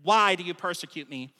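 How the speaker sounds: emphasis on the opening WHY; stress on WHY. Shown as a demonstration. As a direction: lean on "why" to demand a reason. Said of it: "asked in that manner".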